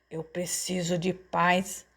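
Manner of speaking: mock bellow, held back; understated yell. A narrator's reading. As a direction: demand peace slowly, with contained rage. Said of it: "berrou ele com a boca espumando".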